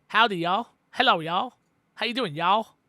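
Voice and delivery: lightly imitated Texan greeting; Texan accent. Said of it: "But they do say y'all".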